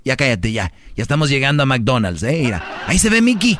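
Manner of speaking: a hint of a fussing parent; mock parent hushing a child. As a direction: hush a child in the car with promised treats. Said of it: "como si fuera un niño".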